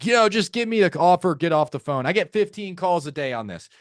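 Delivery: impatient brush-off, pitched high; mildly acted hostility; hostile seller. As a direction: irritably cut the caller short. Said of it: "a hostile seller".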